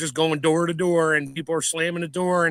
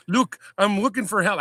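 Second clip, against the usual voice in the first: put-on half-hearted Scottish accent, a bit higher; Scottish accent attempt; 4 semitones higher than usual. Stranded cyclist at the door, in a weak Scottish accent. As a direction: try a Scottish drifter's voice, lightly. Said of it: "had some thick ass Scottish accent and said".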